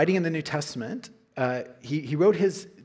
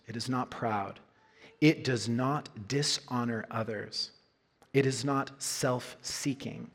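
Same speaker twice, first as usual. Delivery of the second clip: scripture reading; 2 semitones lower, 3 dB quieter than usual. Acted. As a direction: read each line deliberately, letting it land.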